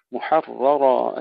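محررا with both راء full and heavy; heavy r sounds. Shown as a demonstration. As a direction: draw out محررا slowly, thick rolled راء. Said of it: "نحافظ على تفخيم الرائين". (تفخيم الراءين في محررا)

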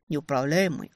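ordinary delivery

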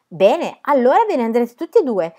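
shouting. A narrator's reading. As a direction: shout them out of the place. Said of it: "gridò Tea Cake".

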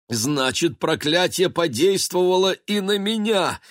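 rising to a high alarmed exclamation; exclaimed. Acted. Baguette discovering the curse hit him, high exclamation. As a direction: realize it with alarm. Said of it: "воскликнул Багет".

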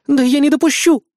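loud, upset protest; trembling declaration. A narrator's reading. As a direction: burst out, fighting back tears. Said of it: "заявляя дрожащим голосом".

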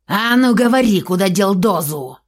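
sharp angry demand; outburst. Acted. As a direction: blow up at him. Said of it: "взорвался Турт".

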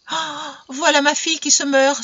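high-pitched wail of alarm; alarmed outcry. A narrator's reading. Mother seeing her daughter faint, alarmed cry. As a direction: cry out in maternal panic. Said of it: "s'écria madame Irnoy".

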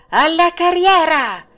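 very high, loud, stretched cry; loud shouted command. Acted. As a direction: roar the final order to full speed. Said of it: "il direttore gridò".

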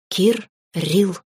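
lightly voiced little dragon, syllables split apart; baby dragon. A narrator's reading. Baby dragon trying out his new name, childlike. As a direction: sound out the new name in two separate bits.

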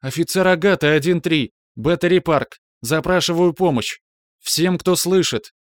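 high, loud plea for help; desperate radio shout. Acted. Desperate final radio call. (отчаянный крик в рацию)

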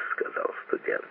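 ordinary delivery, nothing marked

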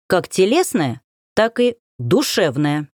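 душевное leaned on, slow and weighty; stress on душевное. Acted. Strelcov repeats his words to the girl, stressing душевное. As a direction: hit the word душевное, drawn out. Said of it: "выделил голосом последнее слово".

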